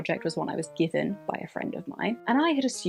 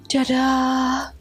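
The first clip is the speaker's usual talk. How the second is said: high, loud, drawn-out ta-da; triumphant reveal; 5 semitones higher, 6 dB louder than usual. Real, not acted. Sewing vlogger unveils the finished shirt to viewers, triumphant. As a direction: sing out a proud ta-da.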